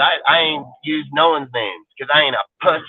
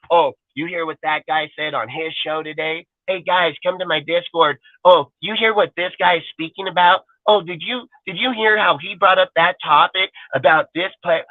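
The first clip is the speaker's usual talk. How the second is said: whiny gossip mockery; 2 semitones higher than usual. Mocking rivals gossiping on Discord.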